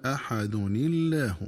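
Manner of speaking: slow "أحد الله" joined as "ahadunillah"; linking with kasra. Shown as a demonstration. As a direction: say "أحد الله" linked, nun with an i, thin lam. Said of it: "بكسر نون التنوين".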